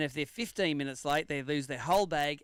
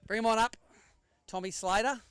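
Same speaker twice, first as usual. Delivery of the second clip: raised voice calling the next angler up to the scales; 5 semitones higher than usual. Real, not acted.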